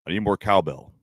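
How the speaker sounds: monotone Walken bit. Retold or imitated. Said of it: "doing the same monotone voice".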